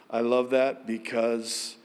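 usual speaking voice

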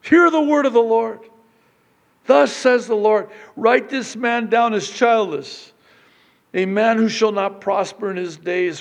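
loud, high prophetic proclamation; full-force preaching. Acted. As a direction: thunder the word of the Lord over the congregation.

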